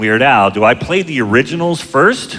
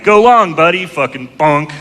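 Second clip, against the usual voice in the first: backyard yell; 4 semitones higher than usual. Retold or imitated. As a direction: call out long like a coach. Yelling in backyard.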